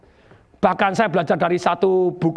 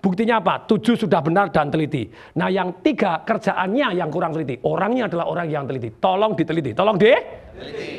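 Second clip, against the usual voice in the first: mildly lowered, measured reassurance; model correction to child; 3 semitones lower than usual. Shown as a demonstration. Showing a teacher how to correct a pupil, lower. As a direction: show a teacher gently correcting the work. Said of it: "ngomongnya begini".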